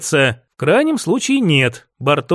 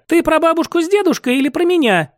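nervous; 9 semitones higher than usual. Acted. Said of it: "нервно спросила она".

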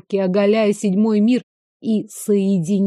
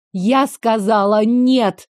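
slow firm refusal; slower than usual. Acted. Heroine refuses Veyen's order, slow and firm. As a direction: dig in and refuse.

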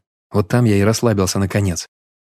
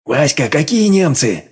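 slow, higher doubtful question; puzzled chairman; 5 semitones higher, slower than usual. Acted. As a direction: ask in disbelief, drawn out.

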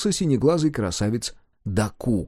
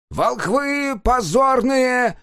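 very slow, high straining yell; yelling hoarse; 12 semitones higher, 3 dB louder, much slower than usual. Acted. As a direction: bawl it at the top of your lungs. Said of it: "надседался Шумок".

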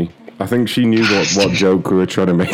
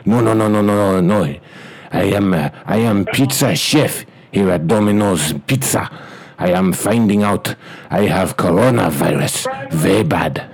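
clipped broken English, hammed-up Chinese accent; mock Chinese accent. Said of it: "as an Asian guy".

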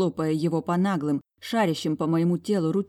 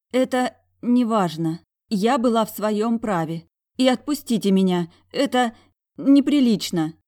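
higher, louder, voice shaking with emotion; trembling voice; 5 semitones higher, 6 dB louder than usual. A narrator's reading. Heroine protesting in his arms, trembling. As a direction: let the voice tremble as you protest. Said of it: "Мой голос дрожал".

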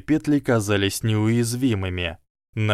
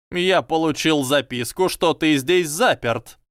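squeaky voice; 6 semitones higher than usual. A narrator's reading. Flitwick keeps talking to Harry.

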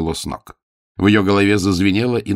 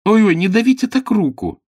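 high, loud whining cry of pain; a girl whimpering as her arm is squeezed; 6 dB louder than usual. Acted. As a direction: whine it out, higher and louder.

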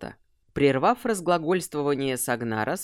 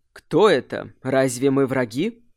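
loud, commanding challenge; forceful call; 2 semitones lower, 5 dB louder than usual. Acted. (властный окрик)

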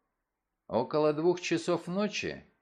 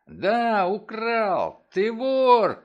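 very loud, higher shout on украл; 8 semitones higher, 8 dB louder, much slower than usual. A narrator's reading. Father shaking his son, shouting. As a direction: shout the accusation in his face. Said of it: "кричал я".

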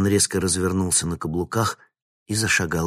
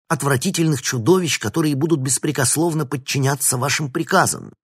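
loud, raised indignant rant; indignant tirade; 6 semitones higher, 6 dB louder than usual. A narrator's reading. Professor Vinnik denounces the monster scheme, loud and outraged. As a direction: pour out the outrage at full volume. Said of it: "возмущённо воскликнул Винник".

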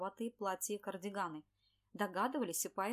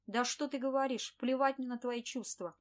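louder, dismissive boss snapping back; scornful retort; 3 semitones higher, 6 dB louder than usual. Acted. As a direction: brush her off loudly and with contempt.

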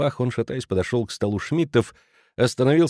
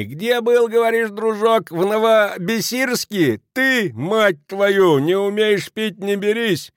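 much higher, jeering crude heckle; mocking shout; 10 semitones higher, slower than usual. A narrator's reading. Kraner jeering at Kelemen over heads, mocking. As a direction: yell a sneering taunt. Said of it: "с ухмылкой крикнул".

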